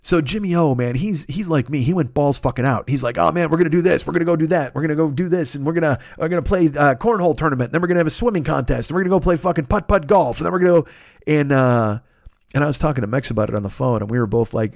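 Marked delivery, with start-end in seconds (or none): 3.2-10.9 higher, excited rattle of plans; imitating a friend's boundless enthusiasm; eager enthusiasm. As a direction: pile on the plans like an eager kid.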